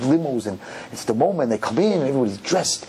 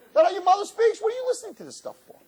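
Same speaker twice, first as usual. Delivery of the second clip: exasperated disbelief. Retold or imitated. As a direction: scold in shrill disbelief. Rabbi's high mock exasperation.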